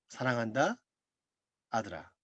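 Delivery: a distant inner voice saying it tenderly; voice of God. Retold or imitated. God speaking into his heart, soft hushed voice. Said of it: "이상한 음성이 들립니다".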